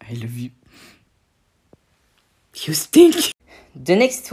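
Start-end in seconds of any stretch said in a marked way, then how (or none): 0.0-0.5 soft whispered confession; whispered love words. Acted. 2.7-3.3 high, loud squeaky retort; a little creature teasing; squeaky cartoon jab; high character voice. High voice insult.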